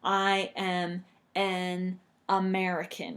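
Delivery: slow, careful example sentence; slow teacher demo; slow model sentence. Shown as a demonstration. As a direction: lay it out slowly for learners. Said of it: "Or you could say".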